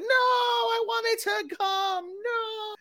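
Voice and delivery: very high, drawn-out falsetto cry; mock desperate wail. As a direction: wail it like women being flung through the air. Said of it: "naked women flying over, like".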